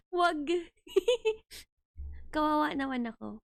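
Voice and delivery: laughing, pretend sob; mock crying. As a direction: fake whimpering no.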